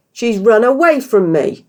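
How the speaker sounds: slow, loud furious roar. A narrator's reading. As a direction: roar with rage. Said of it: "he roared".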